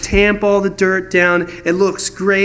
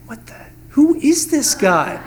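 higher, puzzled mock voice; mock baffled disciples; 4 semitones higher than usual. Disciples reacting to the stranger's order, mock baffled. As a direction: sound baffled by a stranger's advice. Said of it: "They're all like".

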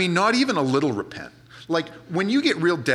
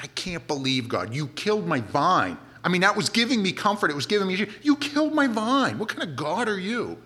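mock indignant; 3 semitones higher than usual. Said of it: "Jonah's all ticked".

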